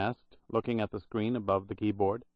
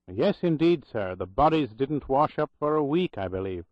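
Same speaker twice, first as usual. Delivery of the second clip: lightly voiced Irish brogue remembering; a hint of old Irish brogue, grave; 4 semitones higher than usual. Old Irish clerk recalling the drowned nurses, light Irish brogue. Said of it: "in a loud Irish brogue".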